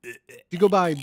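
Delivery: slow, drawn-out awkward question; uncomfortable asking. Retold or imitated. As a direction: stretch it out, imitating someone afraid to say it. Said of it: "makes people uncomfortable sometimes to just say".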